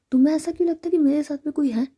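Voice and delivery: a touch of indignant protest; mildly angry. A narrator's reading. Sami objects to Ritika's suspicion, mildly angry. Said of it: "थोड़ा गुस्सा आता है".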